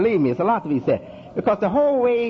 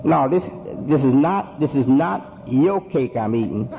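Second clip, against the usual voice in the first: firm parent; 4 semitones lower than usual. Shown as a demonstration. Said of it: "You have to tell".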